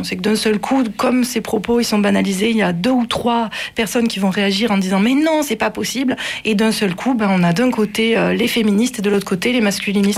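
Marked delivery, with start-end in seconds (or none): 5.0-6.2 mildly indignant objection, higher pitch; lightly acted protest, pitched up; retold protest. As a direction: voice a pupil objecting. Acted outraged reaction in class.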